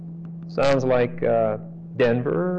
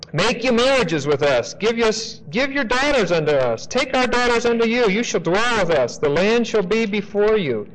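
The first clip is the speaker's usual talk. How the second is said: voicing Hamor; 6 semitones higher than usual. Preacher voices Hamor's sales pitch.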